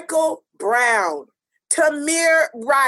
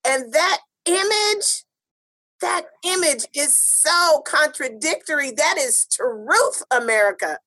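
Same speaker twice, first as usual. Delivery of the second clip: spoken word poem; 2 semitones higher than usual. Acted. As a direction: intone it like a protest poem over music. Spoken-word opening over music.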